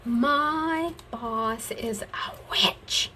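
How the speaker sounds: whispered, slow imitation of a friend; mock-confide the gripe slowly; friend's complaint. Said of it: "she would go".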